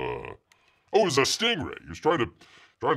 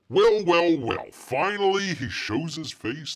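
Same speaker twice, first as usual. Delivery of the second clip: mock grand welcome; 5 semitones higher, slower than usual. Mock grand greeting of latecomer.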